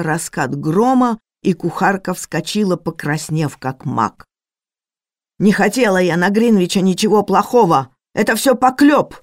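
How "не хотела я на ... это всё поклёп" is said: higher, louder furious denial; indignant shout. Acted. Cook denies ill will toward Greenwich, loud indignant shout. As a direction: protest with all your force.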